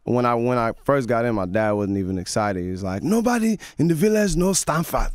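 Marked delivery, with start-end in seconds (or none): 3.0-5.1 high laughing imitation of a strict father; dad voice. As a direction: play the unimpressed Nigerian dad, with a laugh. Father voiced in a retold story.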